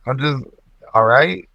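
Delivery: slow mock Toronto accent; hammy Canadian accent impression. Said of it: "Toronto accent".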